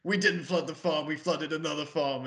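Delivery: a hint of hammed-up Texan; bad Texas accent. Podcaster mocking Costner's flood story, bad Texas accent. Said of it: "his bad fucking, like, Texas accent".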